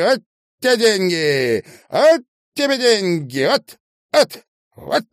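high, loud furious yells; furious shouting. Acted. Marina beating Sasha's head against the door, shouting furiously. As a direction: hammer each word as she strikes.

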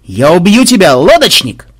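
high and loud, belting it out; mock song-like battle cry. A narrator's reading. Macmed yelling at the boatman before opening fire, loud and high. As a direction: hurl the line like a rowdy song. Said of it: "как в песне поётся".

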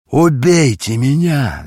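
loud, slow, desperate hoarse cry. A narrator's reading. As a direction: beg for death at the top of your voice. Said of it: "закричал он хрипло". (хриплый отчаянный крик)

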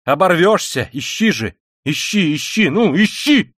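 high, loud defiant tirade, surging and dipping; frenzied Katerina Ivanovna. Acted. Katerina Ivanovna demanding they search Sonya, frenzied defiance. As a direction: dare them in mounting frenzy.

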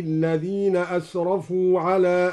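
slow, chanted tajweed recitation; Quran recitation. Acted. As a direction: recite with measured melody. (تلاوة مجودة)

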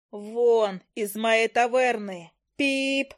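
slow, drawn-out hammed-up bellow; wild yell. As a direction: roar them out of the tavern, half scared. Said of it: "заорала я дурным голосом".

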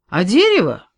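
loud echo of дерево with a falling tune; the forester repeats it loudly; emphatic echo. A narrator's reading. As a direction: take up the question boldly.

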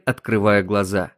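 usual speaking voice

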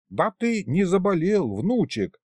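concerned. A narrator's reading. Grandpa asking if grandson is ill, concerned. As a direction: fuss over him with concern. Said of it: "озаботился дед".

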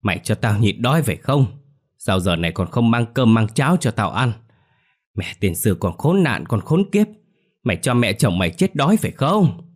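put-on shrill old woman hurling curses; angry cursing. Grandmother cursing her daughter-in-law from the bedroom.

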